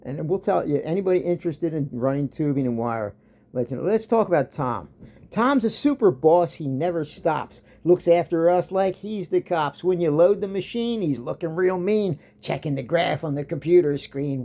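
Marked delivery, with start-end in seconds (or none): 3.8-14.4 reciting a homemade poem about the boss; poem recitation. Pretend. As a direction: read it out like a workplace ode. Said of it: "Let me tell you a little poem".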